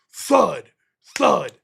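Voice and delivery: two heavy, separate thuds; imitated thuds. Retelling the noise heard downstairs, imitated thuds. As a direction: drop each thud like a dull blow. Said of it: "I just hear this".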